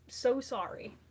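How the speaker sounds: breathy whispered apology; whispered sorry. Acted.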